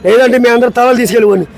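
dramatic hero rebuke, lightly voiced; Chiranjeevi dialogue. Guest performs the Indra rebuke scene for the show, dramatic. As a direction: scold like a righteous film hero. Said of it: "megastar Chiranjeevi".

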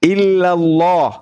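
slow, deliberate word for the convert to repeat; slow recitation lead. Shown as a demonstration. Teacher leading the convert through the shahada, slow and deliberate. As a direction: lay out each syllable slowly for him to echo. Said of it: "ikuti saya dalam bahasa Arab".

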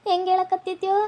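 soft, tender cooing to a son; tender soothing. Acted. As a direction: hush him gently, like a mother. Mother tenderly soothes her son. (ಮೃದುವಾದ ಮಮತೆಯ ದನಿ)

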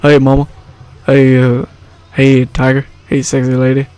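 lightly voiced Southern crooner; a hint of a rock-and-roll idol impression. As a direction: toss out short Southern come-ons. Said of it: "I kinda sound like a famous singer".

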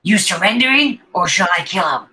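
high, loud villain demand; goblin captor. Acted. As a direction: press them to surrender as a goblin. Goblin captor threatens the players.

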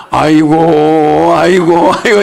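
slow, hammed-up funeral wailing; a lightly mocked mourner's cry; drawn-out mock wail. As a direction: drag out each aigo like a hired mourner. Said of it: "이렇게".

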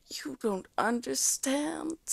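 put-on a teenage girl wailing in despair. A narrator's reading. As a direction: drag it out in a desperate wail. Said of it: "she wailed".

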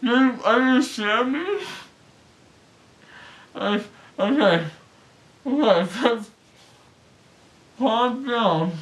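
numb mouth after surgery; ice pack on jaw. Real, not acted. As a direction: talk around gauze and swelling. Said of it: "gauze things in your mouth".

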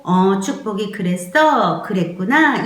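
acted gentle, acknowledging mother; soothing tone. Shown as a demonstration. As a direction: soothe the baby you are holding. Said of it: "내가 얘한테 했던 말의 톤".

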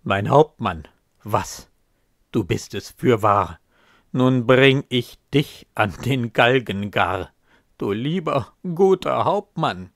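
loud, shaken exclamation; moved cry. Acted. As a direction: soldier recognizes his dead captain, crying out loud. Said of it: "ruft der Landsknecht tief bewegt".

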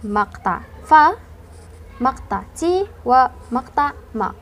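slow, each syllable مقطع فا، مقطع تي، مقطع ما held apart; syllables spelled out. Shown as a demonstration. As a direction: break فاطمة into فا, تي, ما slowly. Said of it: "بالفرنسية أو بالإنجليزية".

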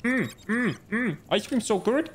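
robotic streamer character. Acted. Streamer thanking viewers for gifts, mock sing-song character. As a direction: chirp each thanks like a looping game character.

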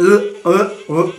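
dry throat croaks. Retold or imitated. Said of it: "empiezo como que".

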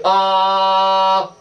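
high, loud ah; demo ah. Shown as a demonstration. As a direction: model the ah for the child. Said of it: "you have to say".

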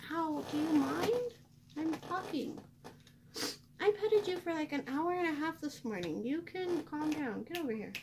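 high-pitched, real complaint to a pet; exasperated pet scolding. Real, not acted. Scolding a needy pet mid-video.

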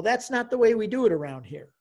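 measured, lightly put-out objection; mild retold rebuff. Priest to eager new convert, mild rebuff. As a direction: imitate a priest gently putting someone off.

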